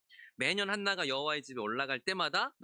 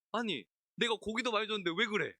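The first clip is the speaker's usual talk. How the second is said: clueless husband; 5 semitones higher than usual. Retold or imitated. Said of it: "이러고 있는 거죠".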